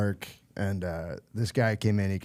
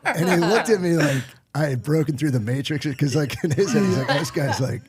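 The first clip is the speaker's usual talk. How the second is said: laughing while talking; 4 semitones higher, 4 dB louder than usual. Real, not acted. Laughing at his own story.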